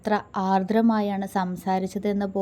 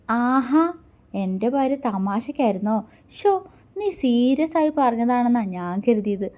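mock hurt; 3 semitones higher, 4 dB louder than usual. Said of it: "വിഷമം അഭിനയിച്ചുകൊണ്ട്".

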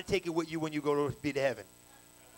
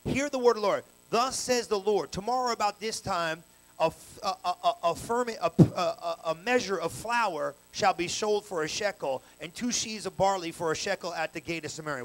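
scripture reading. Acted. Reading scripture with preaching emphasis.

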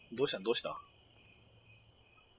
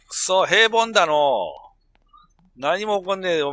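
mock grumble; 4 semitones higher, 6 dB louder than usual. Real, not acted. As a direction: grumble it like a disgruntled elder. Bored of sim's quiet life.

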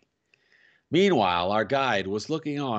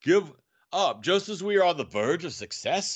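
indignant cry; 7 semitones higher than usual. A narrator's reading. Professor refusing to give up, crying out. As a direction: cry it out in disbelief, pitched up. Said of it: "he cried".

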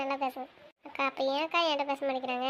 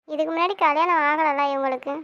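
louder protesting plea; 7 dB louder than usual. Acted. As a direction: insist she didn't know. Girl defends herself loudly.

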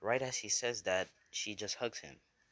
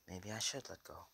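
depressed; 5 dB quieter than usual. A narrator's reading. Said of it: "is depressed and says".

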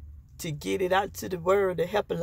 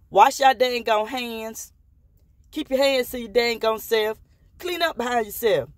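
scolding; 3 semitones higher, 3 dB louder than usual. Real, not acted. Scolding viewers to wash their hands. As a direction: scold them like a mother. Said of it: "scolding viewers about hygiene".

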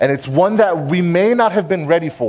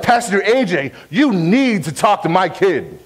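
imitating a frustrated parent, pitched higher; mildly exasperated mock complaint, raised in pitch; 3 semitones higher than usual. Parent complaining to the youth pastor about their kid, frustrated. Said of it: "come up to me frustrated".

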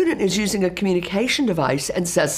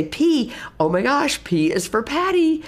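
excited praise; 7 semitones higher than usual. Shown as a demonstration. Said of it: "and I say".

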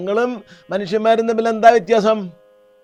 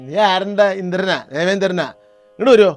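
stern rebuke; 7 dB louder than usual. Acted. Shiva rebukes Indra.

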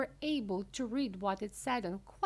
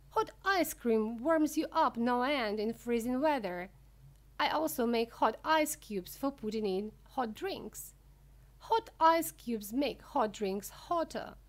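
lively, lightly raised showman voice; Mister Wonka, enthusiastic; 4 semitones higher, 6 dB louder than usual. Acted. Wonka explaining hot ice cream, lightly voiced enthusiasm. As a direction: proudly pitch the invention, a bit louder. Narrator plays Wonka boasting.

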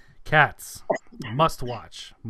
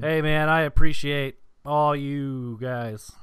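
deadpan thanks; 5 dB louder, slower than usual. Acted.

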